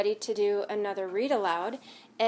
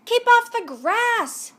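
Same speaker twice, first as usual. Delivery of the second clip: much higher, louder, slow angry shout; grumpy yell; 12 semitones higher, 9 dB louder, slower than usual. Acted. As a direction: shout the dog away. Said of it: "yelled Hank".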